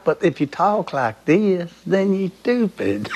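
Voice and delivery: slow, stretched Southern drawl. Shown as a demonstration. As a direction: drag every word out like a lazy Southern talker. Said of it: "they talk like this".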